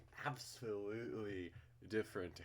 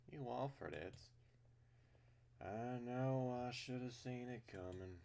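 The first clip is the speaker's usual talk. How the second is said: wry character voice; 5 semitones higher than usual. Acted. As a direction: answer with wry resignation. Voices the reply.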